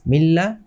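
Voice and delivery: মিল্লা with n merged into a doubled l; no hum, straight onto the l of মিল্লা; merged without ghunnah. Shown as a demonstration. Teacher forbids ghunnah here, মিল্লা joined on double l. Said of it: "কোনো গুণ করা যাবে না".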